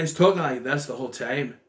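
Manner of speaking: lightly imitated Irish or Scottish accent; Irish-tinged vowels, loosely imitated; Irish brogue. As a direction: mimic an actor's Irish brogue. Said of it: "who's doing an Irish accent".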